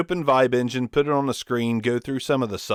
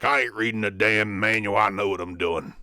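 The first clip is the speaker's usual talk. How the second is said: alpha male. Retold or imitated. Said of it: "went total old school alpha male".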